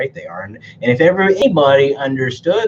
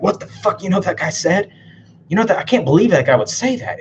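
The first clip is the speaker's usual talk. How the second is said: mock outrage; 7 semitones higher than usual. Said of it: "I'm like".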